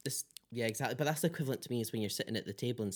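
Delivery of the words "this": short hushed whisper; barely voiced aside. Shown as a demonstration. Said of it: "They're like".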